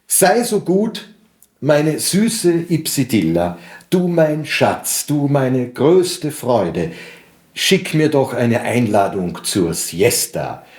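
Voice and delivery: slow, rhythmic verse reading with lifted pitch; poem recitation. Acted. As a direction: recite a wooing love poem in measured rhythm. Recites own translation of poem.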